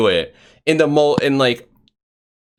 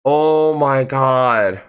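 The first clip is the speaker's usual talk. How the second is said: slow, drawn-out oh my God; exasperated; much slower than usual. Retold or imitated. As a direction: stretch it out, done with this. Exasperated at neighbor's race.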